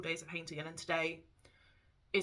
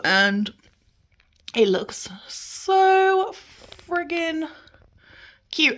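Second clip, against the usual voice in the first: excited whisper; 9 semitones higher, 7 dB louder, much slower than usual. Real, not acted. Gushing over the painted wall.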